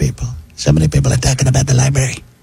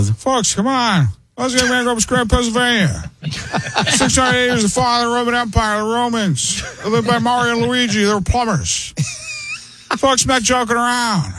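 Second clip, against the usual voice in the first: put-on higher, rambling old Biden voice; Biden impression; 10 semitones higher than usual. Comic riffing for the hosts, higher Biden voice. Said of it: "now he's, like, almost Biden's age".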